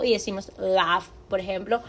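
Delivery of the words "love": «love» with a vowel between A and O; «love» said as «lav». Shown as a demonstration. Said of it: "entre una A y una O".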